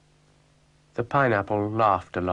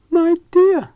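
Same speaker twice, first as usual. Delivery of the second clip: laughing; 11 dB louder than usual. Acted. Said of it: "The train shook with laughter".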